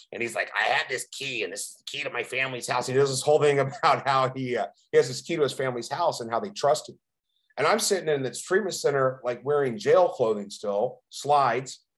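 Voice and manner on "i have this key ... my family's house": put-on hoarse voice. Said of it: "he has this really raspy voice and he talks like this".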